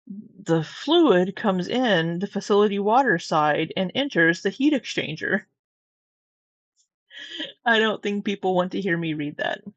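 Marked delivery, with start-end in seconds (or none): 0.1-5.5 corporate training video. Shown as a demonstration. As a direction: read it like a training manual. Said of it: "That's like the perfect training video voice".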